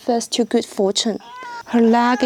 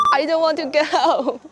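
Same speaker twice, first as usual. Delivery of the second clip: whiny reluctance; 4 semitones higher than usual. Real, not acted. Dreads climbing down.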